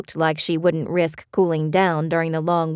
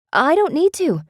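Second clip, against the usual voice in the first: insistent; 11 semitones higher than usual. A narrator's reading. Beth insists.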